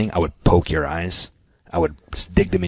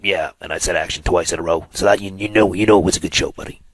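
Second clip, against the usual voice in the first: announcer voice; 4 dB louder than usual. Acted. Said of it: "That's my announcer voice".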